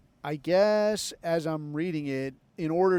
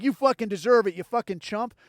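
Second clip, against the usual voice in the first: louder, higher mock jeer at the soldier; jeering mockery; 3 semitones higher, 3 dB louder than usual. Imitating online commenters jeering at the dead soldier, loud mocking. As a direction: sneer it like an online troll gloating. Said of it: "you know, like".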